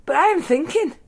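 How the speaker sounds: ordinary talk, nothing marked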